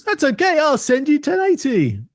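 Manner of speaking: high, cheerful gadget voice; computer replying. Retold or imitated. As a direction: answer like an eager, helpful computer. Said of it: "The computer says".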